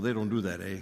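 mock Minnesota accent with long round O. Texan teases his colleagues up north, mock Minnesota accent. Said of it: "the guys from Minnesota".

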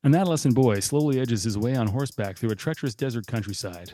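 a brisk trailer-style movie recap over music; hammed-up one-minute plot summary read; movie synopsis narration. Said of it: "my oral synopsis of Chino in one minute or less".

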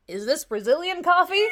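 put-on loud, high American tourist accent. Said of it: "Do the accent".

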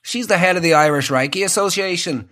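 lightly voiced Northern Irish dad; understated Northern Irish accent; stoic Northern Irishman. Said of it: "stoic Northern Irish man".

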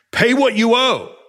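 loud, high furious snarl; angry demand. Acted. Servant chokes his fellow servant, loud angry demand. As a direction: bark the demand at the debtor.

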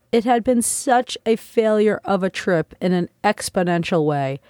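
ordinary delivery

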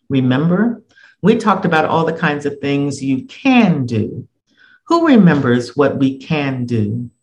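a lightly voiced firm teacher addressing the class; steady and in charge, calling the class to order. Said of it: "Teacher said in a firm tone".

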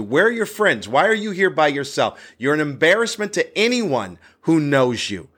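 indignant retold scolding, pitch climbing; angry. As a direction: berate the heckler with rapid-fire questions, mildly heated. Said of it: "now I'm angry again".

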